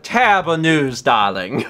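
mildly posh imitation of the line; echoing the woman's line in a light posh tone. Friend echoing the woman's posh greeting, mild. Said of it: "the way this woman is dressed".

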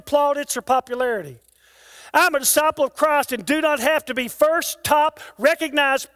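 rhythmic, driving declamation in punched list phrases; stirring creed reading. Acted. Preacher reads a disciple's creed to stir the congregation, rhythmic declamation. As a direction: declaim it in steady cadence to stir up the crowd.

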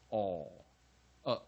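'哦' and '呃' as isolated weak-vowel sounds. Shown as a demonstration. Teacher demonstrating weak A, '哦, 呃' as separate sounds. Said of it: "A要念弱母音".

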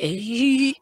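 attempted character chuckle; Pig Patch laugh. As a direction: put on a cartoon character's laugh. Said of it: "I can't do the laugh good".

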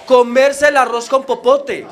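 "comerse el arroz con popote" dicho lento, con su voz normal; la frase citada, lenta y clara; frase repetida despacio. Shown as a demonstration. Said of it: "esa frase". (el colombiano repite la frase despacio)

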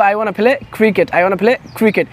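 "wanna" blended, slow and clear; casual reduced form demo. Shown as a demonstration. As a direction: say "I wanna play cricket" with "wanna" as one word. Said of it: "না বলে কি বলবো?".

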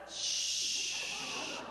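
a whispered shh; shushing. Retold or imitated. Airline agent hushing the preacher, whispered. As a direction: hush him with a breathy shh.

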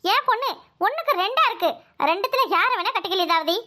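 chuckling while making a sly offer; mocking laugh. Aunt teases Leelavathi about marrying her daughters, laughing. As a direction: laugh through the words as if it's a joke.

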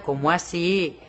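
lightly imitated Colombian accent. Shown as a demonstration. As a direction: have a tentative go at Colombian. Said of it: "acento colombiano? Lo estoy practicando". (acento colombiano, intento leve)

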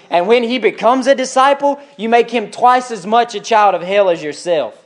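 emphatic indignant accusation; Jesus, upset. Acted. Jesus accusing the Pharisees, indignant. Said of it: "Jesus was upset with them".

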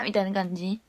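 unvoiced whispered aside. Real, not acted. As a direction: whisper it to the viewers.

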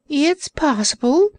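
high, slow creature moan; moaning Orc. Acted. Orc moaning to Cap'n Bill, high slow moan. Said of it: "moaned the Orc".

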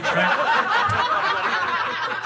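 squeaky high right. Real, not acted. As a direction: squeak the word out, amused.

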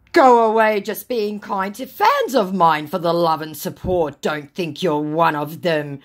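loud outburst easing off; acted-out angry retort; indignant scammer. Reads scammer's angry reply.

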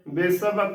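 ਵਿਸਵ as "be-sa-va" with a full v; ਵਿਸਵ with every syllable sounded; correct pronunciation. Shown as a demonstration. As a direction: keep the last ਵ of ਵਿਸਵ a consonant. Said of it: "ਵਾਵਾ ਹੀ ਬੋਲਿਆ ਜਾਂਦਾ".

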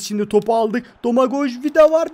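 rising match excitement; excited rising shout. Real, not acted. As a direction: voice climbing to a loud shout. Excited play commentary building.

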